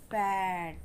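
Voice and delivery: "बैड" modelled with a short A sound; careful teacher's "बैड"; short A demo. Shown as a demonstration. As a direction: pronounce "बैड" clearly for learners. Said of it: "छोटे आ का sound".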